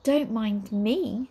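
cool. Acted. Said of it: "said the witch coolly".

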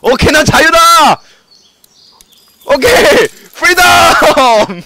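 high, drawn-out victory shout; triumphant cheer. Real, not acted. (탈출 성공에 신나서 길게 외치기)

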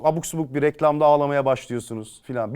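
ordinary delivery

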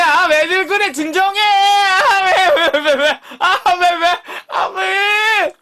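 high, loud, laughing whine of protest; mock whiny wail. Streamer whining back at teasing chat, hammed-up wail.

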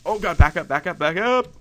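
loud hurried back up; frantic retreat calls; urgent shouting. Real, not acted. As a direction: yell while backing away. Retreating from creepers.

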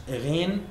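gargle gently on Ghain; gargled Ghain. Shown as a demonstration. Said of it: "We write the Ghain".

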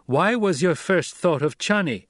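high, pressing question; demanding. A narrator's reading. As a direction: demand the reason. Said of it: "Paul demanded".

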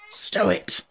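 whispered sharp command; savage undertone. A narrator's reading. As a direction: hiss it at your sister. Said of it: "in a savage undertone".

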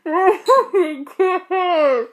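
talking through laughter; cracking up mid-sentence; laughing. Real, not acted. Friend reacts to skunk breath.

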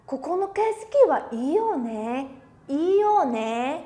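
slow, lingering admiration of the view; with feeling. Shown as a demonstration. Teacher showing students how to say it with feeling, slow and lingering. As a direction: savour the scenery, drawn out. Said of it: "cho cảm xúc như thế nhá".

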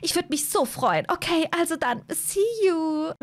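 eine etwas höhere, gezierte Hazel-Stimme; Hazel voiced. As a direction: spiel Hazel leicht höher, kokett. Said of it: "Hazel zu spielen ist so anstrengend". (Hazel, leicht höher gesprochen, schwärmt Edgar vor)

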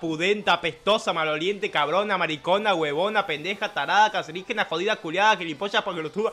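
chanted list of abuse; rattled-off insults. Pretend. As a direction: reel off each insult in an even beat.

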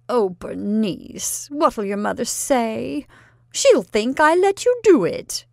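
slow start rising to a high, loud wail; distressed aunt. Acted. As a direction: build from a sigh to a panicked cry.

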